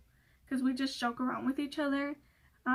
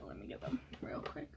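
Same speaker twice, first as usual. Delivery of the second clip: whispering; 3 semitones higher, 13 dB quieter than usual. Real, not acted. Aside while fetching products.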